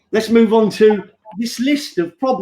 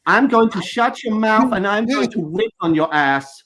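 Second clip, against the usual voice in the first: imitating a rapper. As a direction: say the threat like it doesn't quite land. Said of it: "which sounds different to me".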